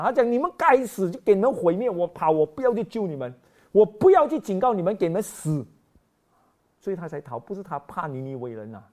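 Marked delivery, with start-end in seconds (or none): 0.3-5.6 mock spiteful Jonah.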